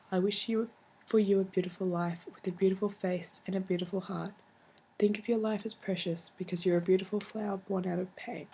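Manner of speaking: tender, steady letter reading; reading a letter aloud. Shown as a demonstration. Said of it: "I'll read you one".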